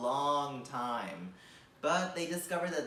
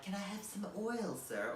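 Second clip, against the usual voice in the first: pleading English orphan voice, higher; English Oliver Twist accent; 6 semitones higher, 4 dB quieter than usual. Retold or imitated. To the friend's host, asking in an English orphan accent. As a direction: beg for oil like a Victorian English orphan. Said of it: "a big American Oliver Twist".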